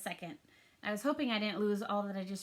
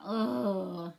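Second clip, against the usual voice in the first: groan; 2 semitones lower, 3 dB louder than usual. Retold or imitated. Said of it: "And the word groans".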